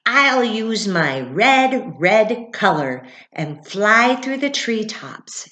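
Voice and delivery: loud, slow cardinal voice; proud cardinal. Acted. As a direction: puff up and declare it. Cardinal continues.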